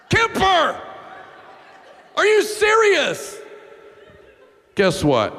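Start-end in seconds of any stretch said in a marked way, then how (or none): 0.1-3.4 calling out. Real, not acted. Calling out to the tech booth.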